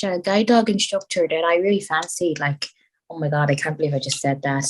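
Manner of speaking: imperfect put-on Irish accent. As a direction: chat on in a slipping Irish brogue. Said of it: "I'm losing it a little bit".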